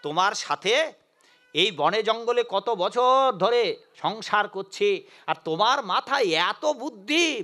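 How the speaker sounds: slow, drawn-out wonder; lightly voiced astonished demon wife; amazed demoness. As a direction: marvel at the husband's brains. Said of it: "অবাক হয়ে বললেন".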